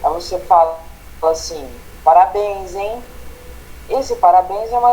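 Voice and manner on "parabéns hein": mock praise with a critical edge; ironic. Shown as a demonstration. Teacher demoing irony to a family member who spilled food, sarcastic. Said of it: "pela entonação fica claro que aquilo é uma crítica".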